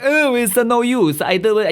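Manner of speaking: put-on high, slow, whiny old clown voice; old Italian clown. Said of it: "old Italian clown going like".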